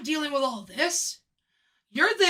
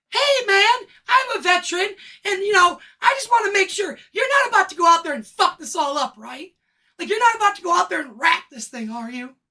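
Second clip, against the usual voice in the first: mock veteran; 4 semitones higher, 4 dB louder than usual. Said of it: "what's the first thing he says to me?".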